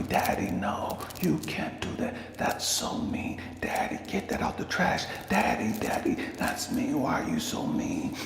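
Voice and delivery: high-pitched imitation of an upset child; offended daughter. Daughter scolding Dad for trashing the note, mock offended. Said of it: "She's offended".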